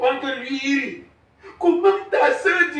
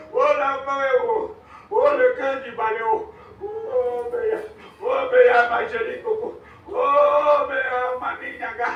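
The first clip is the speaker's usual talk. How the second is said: lamentation. Acted. Père pleure sa fille Béa.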